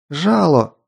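shouted warning. Acted. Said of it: "выкрикнула она мне в лицо".

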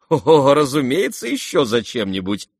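high, loud opening chuckle into words; laughing reply. A narrator's reading. The guest admits another reason for coming, laughing. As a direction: laugh as you readily admit it. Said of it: "рассмеялся тот".

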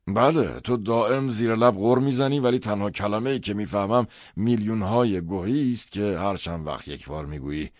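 loud, high-pitched scolding; angry, emphatic complaint; angry father. A narrator's reading. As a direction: snap back as the irritated father. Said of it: "عصبانی بود".

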